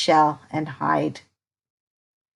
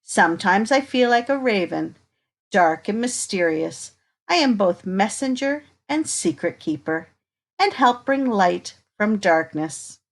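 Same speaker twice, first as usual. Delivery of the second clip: put-on reading to children. Reading picture book to children.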